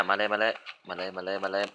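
soft under-the-breath chant of มาเลย; quiet urging. Real, not acted. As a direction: coax it along quietly, มาเลย มาเลย. Urging character forward in game.

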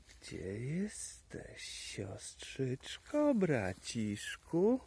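sing-song slow calling to hidden siblings; slow coaxing call. Pretend. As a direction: coax the little ones out of hiding.

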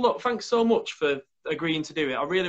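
ordinary talk

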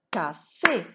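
"Ca-fé" closer together, second syllable rising; syllables joined up. Shown as a demonstration. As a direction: say "Café" again with only a short break between syllables. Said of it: "On va frapper les syllabes".

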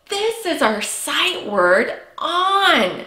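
slow, careful modelling of "This is our sight word on"; slow model sentence. Shown as a demonstration. Teacher models the sentence for kids to echo, slowly. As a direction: say it slowly for the class to repeat. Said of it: "Can you say".

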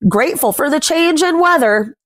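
gentle rhyming picture-book read, words savoured; reading to children. A narrator's reading. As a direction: read the rhyme aloud to little ones. Reads rhyming picture book aloud.

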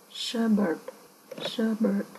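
ordinary talk, nothing marked

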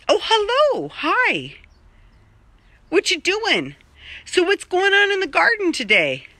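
high sweet voice for the cat; pet talk. Real, not acted. Talking to the cat.

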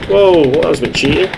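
high startled whoa; surprised outburst. Real, not acted. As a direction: caught off guard, protesting. Surprised by enemy shot.

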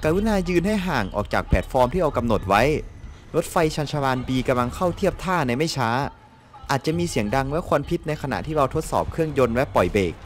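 lightly formal announcer reading; station announcement. Acted. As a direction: read it out like a platform announcement, evenly. Translates station announcement aloud. (อ่านประกาศสถานีรถไฟแบบทางการเล็กน้อย)

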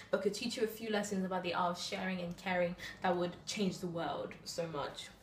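spoken-word poetry, measured phrasing; slam poem recital. Acted.

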